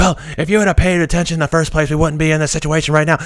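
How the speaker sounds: mock furious, angry scolding scream. Retelling how a coworker screamed over a forgotten item: imitating someone screaming. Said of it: "this lady is screaming at me".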